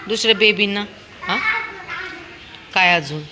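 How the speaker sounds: usual speaking voice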